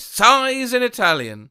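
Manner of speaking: Sighs in Italian read with a light, hammed-up Italian lilt; mock Italian sigh. Shown as a demonstration. Showing how one sighs in Italian, mock Italian lilt. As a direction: playfully sigh the words the Italian way. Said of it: "Like this".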